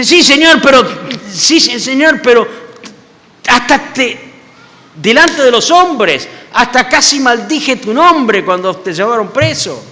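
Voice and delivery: high, loud, halting excuse with a nervous laugh; anxious protest. Retold or imitated. Peter nervously protests his love to Jesus. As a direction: stumble over the yes and rush the but. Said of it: "Y dice".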